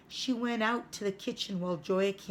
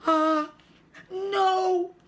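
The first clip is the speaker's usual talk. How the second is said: a sudden loud, high "no"; loud and clear; 12 semitones higher, 7 dB louder than usual. Acted. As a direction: blurt it out to stop Mama. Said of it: "said Joachim so loudly and clearly".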